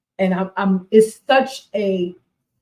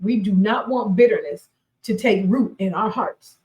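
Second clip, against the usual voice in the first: normal talking voice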